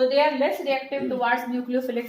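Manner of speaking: very slow, word by word, for students to write; slow dictation. Shown as a demonstration. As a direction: dictate it slowly so they can copy. Teacher dictates notes to class. (धीमे-धीमे notes लिखवाना)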